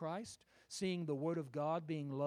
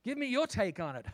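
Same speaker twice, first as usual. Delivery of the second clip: higher, inviting and eager; gentle invitation; 6 semitones higher, 6 dB louder than usual. Acted. Jesus inviting the grieving disciples to speak, gentle. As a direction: coax the story out of them. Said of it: "And he said".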